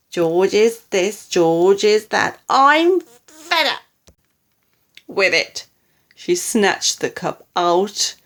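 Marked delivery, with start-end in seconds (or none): 0.1-5.6 loud exasperated rant; shouting. A narrator's reading. Grandma fed up with grandson's fuss, building exasperated shout. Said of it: "shouted Grandma".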